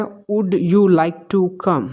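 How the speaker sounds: slow, with "Would you" at the start; slow correct form. Shown as a demonstration. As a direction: model the correct question slowly. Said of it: "ये correct है". (सही प्रश्न धीरे से)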